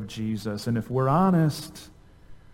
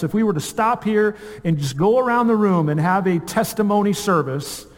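higher-pitched, emphatic sermon delivery; impassioned preaching; 5 semitones higher than usual. Real, not acted. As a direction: preach it with mounting conviction, leaning on key words. Preaches at full force.

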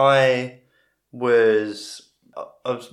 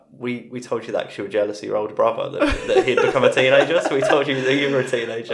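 laughing; 5 dB louder, much faster than usual. Retold or imitated. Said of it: "my granddad was like".

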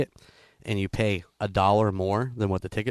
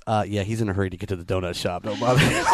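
dismissive dispatcher; 5 semitones lower, faster than usual. Retold or imitated. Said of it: "the guy on the phone goes".

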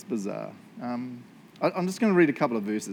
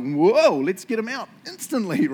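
eager rescue; 8 semitones higher, 8 dB louder than usual. Pretend. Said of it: "I'd be like".

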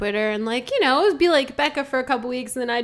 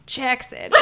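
breathy hushed whisper of the name; 7 dB quieter than usual. Retold or imitated. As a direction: whisper your own name softly. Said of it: "Tell us where you whisper your name".

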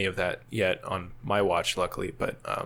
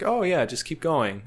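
slow, higher, breezily clueless reply; sleep-deprived misunderstanding; 6 semitones higher than usual. Retold or imitated. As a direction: draw it out, cheerfully missing the point. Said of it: "my sleep-deprived mind".

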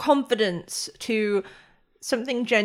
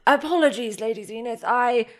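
higher, flustered apology; apologetic grandmother; 4 semitones higher than usual. Acted. Grandmother apologising to the toddler's mother, higher flustered voice. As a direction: backtrack politely in a lightly voiced grandmother role.

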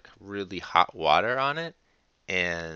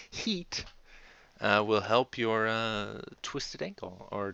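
mock expert tip; 2 semitones higher, slower than usual. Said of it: "medical tips".

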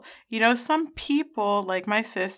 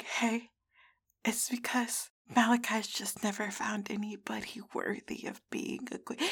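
mock whisper; 10 dB quieter than usual. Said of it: "And they're like".

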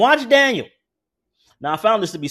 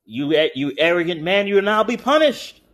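gloating; 2 semitones higher than usual. Retold or imitated. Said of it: "there's no glee in his voice".

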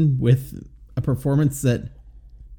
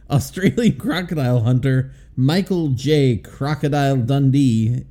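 laughing through words. Real, not acted. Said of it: "let me just try this".

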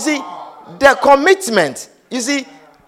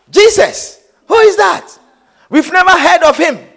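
higher-pitched doubtful retort; incredulous questioning; 4 semitones higher than usual. Retold or imitated. Preacher acting Nathanael questioning Philip, incredulous. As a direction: question it as a sceptic would.

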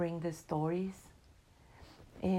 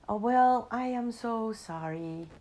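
caught-out exclamation; 4 semitones higher, 6 dB louder than usual. Acted.

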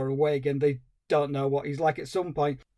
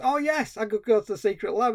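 much higher, fast mock realisation; a hammed-up penny-drop moment; dim hero; 6 semitones higher than usual. Hero finally getting the mad scientist's hint, mock realisation. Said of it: "he goes".

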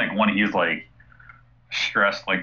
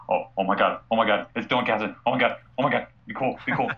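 breathless, rising starstruck gush; 3 semitones higher, faster than usual. Retold or imitated. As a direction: gush like meeting your idol. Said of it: "starstruck about it".

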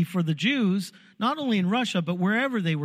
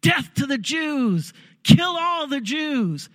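high, louder, slow, drawn-out mob shout; retold mob yell; 8 semitones higher, 4 dB louder, slower than usual. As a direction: shout it slowly like an angry mob. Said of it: "they started yelling".

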